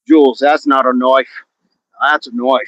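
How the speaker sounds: put-on lightly done Australian accent; Paul Hogan. Quoting film line to Jules in mock Australian accent. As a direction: put on a rough attempt at an Aussie accent. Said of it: "How about some Paul Hogan references?".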